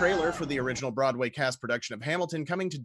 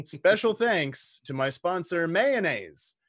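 mock ad read; 4 semitones higher, 3 dB louder, slower than usual.

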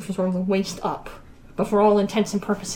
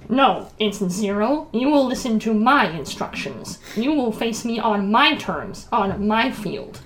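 overbearing. Acted. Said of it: "Overbearing statement".

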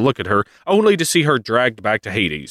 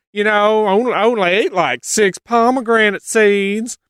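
sheepish Persephone; 11 semitones higher than usual. Retold or imitated. Persephone confessing the seeds to her mother in a high sheepish voice. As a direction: admit it guiltily. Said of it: "Persephone's like".

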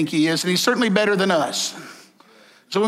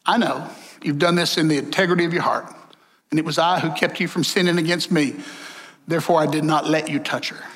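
lower, solemn voice of God; God speaking; 5 semitones lower than usual. Retold or imitated. God answers the king in the dream, lightly lowered solemn voice. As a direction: answer the king with calm authority. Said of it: "Then God said to him".

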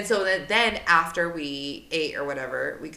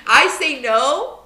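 slow, high laughing line; admitting her weak refusals; 8 semitones higher, 8 dB louder, slower than usual. Real, not acted. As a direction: say it through a laugh. Laughing confession.

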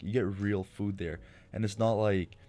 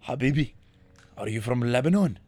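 higher, louder friendly Habibi; imitating an eager cashier; 3 semitones higher, 5 dB louder than usual. Tim Hortons cashier greets him, louder and higher. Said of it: "they're like".

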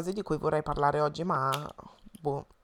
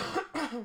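rough throaty cough; a real hacking cough; chesty cough; 8 semitones higher, 9 dB quieter than usual. Real, not acted. Coughing mid conversation.

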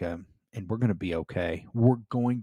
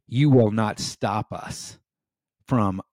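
defiant. Retold or imitated. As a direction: say it like a challenge to the enemy. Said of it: "as to say".

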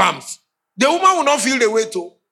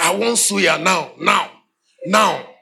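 demanding; slower than usual. Retold or imitated. Wife demanding suya.

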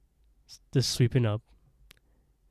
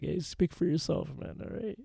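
grumpy captain voice; 8 semitones higher, 7 dB quieter than usual. Acted. The captain objects.

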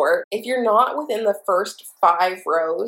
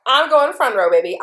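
excited boast; 4 semitones higher, 5 dB louder than usual. Retold or imitated. Acting out determination for front row.

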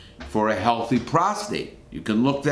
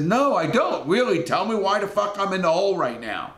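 high-pitched, insistent retort; exasperated demand; 7 semitones higher than usual. Retold or imitated. Inmate demanding the reason from a guard, retold exasperated demand. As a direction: re-enact pressing for an answer, pitched up.

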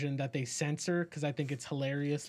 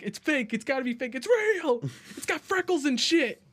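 mock disbelief; 9 semitones higher, 4 dB louder than usual. Retold movie, disbelief building.

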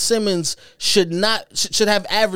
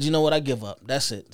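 giving up; 5 semitones lower, 5 dB quieter than usual. Retold or imitated. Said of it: "I said".

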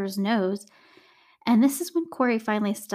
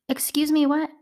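shocked; 6 semitones higher, 4 dB louder than usual. Real, not acted. Shocked reaction to the plan.

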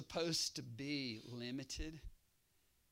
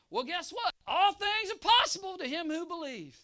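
full-force preaching; 14 semitones higher, 12 dB louder than usual. Acted. Preacher roaring the promise to the congregation, full force. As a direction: preach it to the rafters.

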